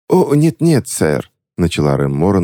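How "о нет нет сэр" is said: high, theatrical plea of a scheming witch; mock tragic lady. A narrator's reading. Witch feigning tragedy to the bank clerk. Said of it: "нацепив маску трагизма".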